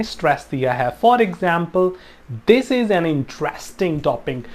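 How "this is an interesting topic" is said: "interesting topic" stressed within the sentence; slow sentence with "interesting" picked out. Shown as a demonstration. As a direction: lean on "interesting" slowly and deliberately. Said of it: "इंटरेस्टिंग टॉपिक को मैंने कैसे stress किया".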